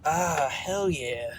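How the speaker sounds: normal talking voice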